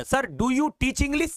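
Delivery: slow, spaced student's question; student's question, slowly modelled. Shown as a demonstration. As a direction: ask it word by word. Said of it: "हमसे कोई पूछेगा तो क्या पूछेगा?".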